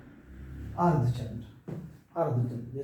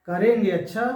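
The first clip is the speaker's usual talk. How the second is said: louder "करेंगे", with "अच्छा" tagged after; negative, refusing; 3 semitones higher, 5 dB louder than usual. Shown as a demonstration. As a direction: hit "करेंगे" hard as a mocking brush-off. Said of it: "नकारात्मक हो जाएगा".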